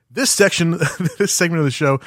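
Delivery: punchy hype intro read; announcer voice. Shown as a demonstration. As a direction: announce it like a show segment. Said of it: "Let's try that again".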